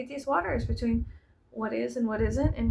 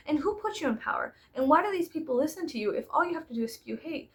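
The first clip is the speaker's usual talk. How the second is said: retold indignant challenge, pitched up; snapped; 2 semitones higher than usual. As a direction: mildly snap back with rising, pointed questions. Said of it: "I snapped and I was like".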